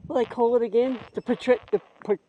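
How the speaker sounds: winded, breathless between words; halting out of breath on the climb. Real, not acted. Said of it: "sorry, I'm a bit out of breath".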